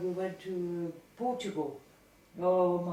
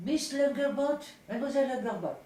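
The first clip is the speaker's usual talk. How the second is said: lightly disguised caller's voice, higher and louder; 5 semitones higher, 3 dB louder than usual. Retold or imitated. Friend disguises her voice on the prank phone call. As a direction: put on a stranger's voice for a phone prank. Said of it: "disguised her voice".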